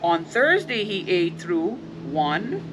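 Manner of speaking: gentle, even storybook reading; reading to children. Acted. Parent reads The Very Hungry Caterpillar to the kids, gently. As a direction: read it like a bedtime picture book.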